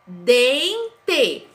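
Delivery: Dente split slowly into two syllables; syllables clapped. Shown as a demonstration. Teacher claps out Dente for pupils. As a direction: clap out Dente. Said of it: "eu falei pausadamente".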